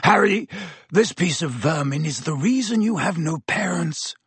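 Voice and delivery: snarling. A narrator's reading. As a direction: spit it out with contempt. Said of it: "Black snarled".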